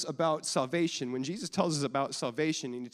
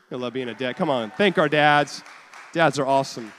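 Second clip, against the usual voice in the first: loud, rousing call to cheer the dads; rallying shout; 11 dB louder than usual. Real, not acted. Pastor whips up the congregation, shouting. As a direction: pump the room up for the dads.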